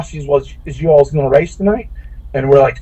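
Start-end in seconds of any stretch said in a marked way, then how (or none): 0.3-1.9 lightly imitated southern drawl. Gate lady asking strangers if they'll race, mild southern drawl. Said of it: "So in her southern drawl".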